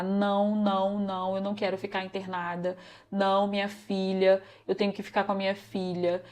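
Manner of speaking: subdued re-enactment of a crying refusal; retold tearful pleading. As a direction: plead quietly as if reliving it. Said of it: "chorar, e a falar".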